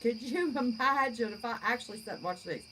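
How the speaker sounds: real laugh breaking into the words. Real, not acted. Joking to viewers about actually watching the news, laughing. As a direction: say it through a chuckle.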